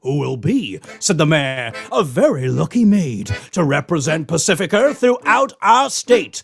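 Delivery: a hint of an American accent, sung story; lightly American-accented principal. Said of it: "I'm gonna do an American accent".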